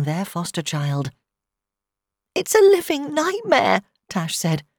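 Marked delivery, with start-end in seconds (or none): 2.3-4.6 very high, anguished wail; distraught, about to dissolve into tears; near tears. A narrator's reading. Mother of accused son on the phone, near tears. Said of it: "She dissolved into tears again".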